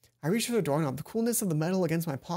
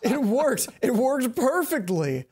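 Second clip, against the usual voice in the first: higher and louder triumphant cheer; gleeful; 5 semitones higher, 5 dB louder, slower than usual. Acted. Satch celebrating to Hana, gleeful and loud. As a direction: crow with delight at success.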